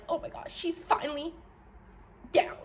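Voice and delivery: high, whispery fake awe; breathless put-on delight; mock gleeful followers. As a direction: imitate onlookers marvelling in a hush. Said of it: "Y'all like".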